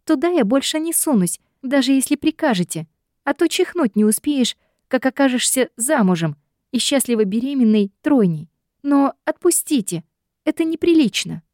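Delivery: put-on high, indignant young woman; high flustered protest; flustered heroine. A narrator's reading. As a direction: protest from over his shoulder. Heroine voice held.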